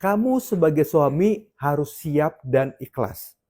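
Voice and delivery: slow, lightly voiced quote of God; God speaking. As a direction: relay the divine instruction slowly, word by word. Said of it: "Tuhan ngomong gini". (suara Tuhan, pelan dan agak khidmat)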